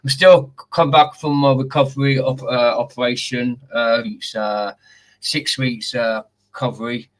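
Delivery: muffled behind a face mask; talking through a face mask. Real, not acted. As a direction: speak through a mask with a sore mouth. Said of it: "Sorry about the face mask".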